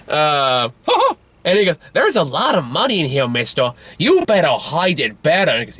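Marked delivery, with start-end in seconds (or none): 1.9-5.5 lightly voiced, higher child; sing-song put-on child voice; little girl. Little girl warns Joe about his money, child voice. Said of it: "Or the little girl finds".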